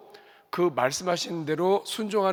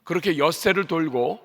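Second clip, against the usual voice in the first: ordinary delivery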